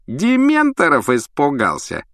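slow mocking jeer; sneering taunt. A narrator's reading. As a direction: drawl the insult out slowly. Malfoy taunting.

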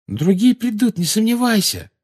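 high-pitched confident assurance; insistent, certain reply; assuring. A narrator's reading. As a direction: assure him emphatically, without a doubt. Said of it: "заверила его Джинни".

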